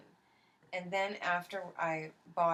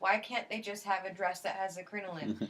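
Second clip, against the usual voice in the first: mock exasperated; 4 semitones higher, 5 dB louder than usual. Retelling her meltdown in a shop.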